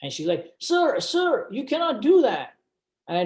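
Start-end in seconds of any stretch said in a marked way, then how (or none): 0.6-2.5 imitated nurse, very high-pitched; mock a nurse urgently stopping a patient. Nurse to patient taking out the oxygen, high urgent imitation. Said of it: "the nurse comes running at me".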